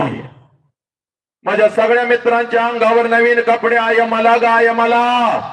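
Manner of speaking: breaking, wailing plea to mother; sobbing child. Acted. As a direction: sob out the words to mother.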